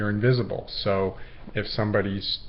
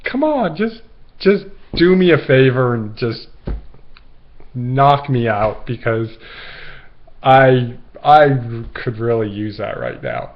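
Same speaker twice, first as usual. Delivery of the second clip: pleading provocation; 5 dB louder than usual. Retold or imitated. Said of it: "I was like".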